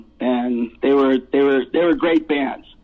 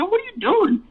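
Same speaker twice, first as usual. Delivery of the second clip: retold surprise. Retold shock at gargling bandmates.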